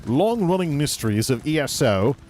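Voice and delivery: mock British ranting presenter; lightly faked British accent; fake British accent. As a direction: sell the grievance in a put-on British voice. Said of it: "about as ridiculous as my fake accent".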